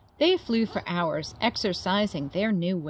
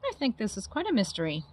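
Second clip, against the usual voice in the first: chirpy; 4 dB quieter, faster than usual. Acted. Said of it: "Flap chirped".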